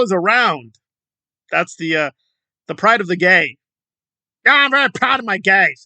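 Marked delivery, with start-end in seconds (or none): 4.4-5.8 higher, louder put-on smug voice; mock proud boast. Mocking the protester boasting about her group, smug put-on voice. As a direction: preen like a self-satisfied leader.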